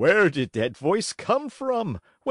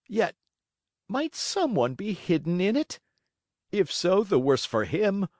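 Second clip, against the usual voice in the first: put-on higher, trembling scared old man; a touch of fright, pitch climbing; frightened stammer; 9 semitones higher than usual. A narrator's reading. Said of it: "trembling and stuttering from fright".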